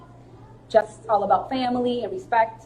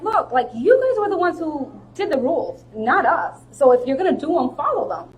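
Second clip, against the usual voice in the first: indignant, raised-voice telling-off; indignant arguing; 5 semitones higher than usual. Retold or imitated. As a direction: argue back at the ref, pitched up. Retold argument with the referee.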